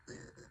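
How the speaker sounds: low-volume "ugh" of distaste; small retold noise of dismay; disgusted groan. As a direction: groan quietly, put off. Retold distaste at agency's models.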